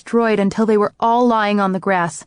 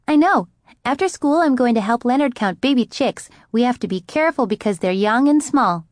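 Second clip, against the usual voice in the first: put-on chatty little girl; 4 semitones higher than usual. Gabby chatting eagerly.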